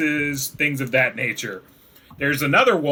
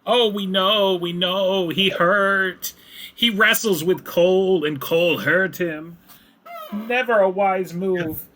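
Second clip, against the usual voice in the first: high, squeaky creature voice; squeaky kobold; 4 semitones higher than usual. Acted. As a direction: chatter it out like a fawning kobold. Kobolds explain to player.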